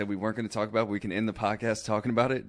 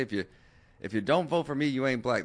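quoting Biden; 4 semitones higher than usual. Retold or imitated. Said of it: "what did Joe Biden say?".

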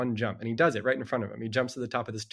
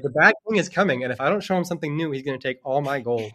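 panicked king; 2 semitones higher, 6 dB louder than usual. Retold or imitated. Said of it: "And he's like".

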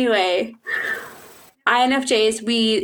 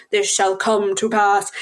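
slow mock-prophetic pronouncement; solemn quotation; 3 semitones lower, slower than usual. Friend quotes a half-remembered fantasy line, solemn and slow. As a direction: intone it grandly, word by word. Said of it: "a reference to something?".

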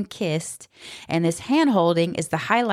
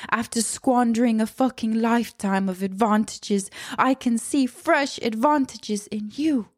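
mocking paraphrase of a greedy suitor; lightly voiced vampire of a man, higher; sarcastic imitation of the predator; sneering mock Rochester; 4 semitones higher than usual. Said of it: "how the fuck is that romantic".

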